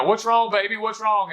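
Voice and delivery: mock high cooing to a whimpering baby; doting parent. Mocking young parents cooing over a whimpering child, high and sweet. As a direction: imitate a fussing parent, pitch up high and sugary.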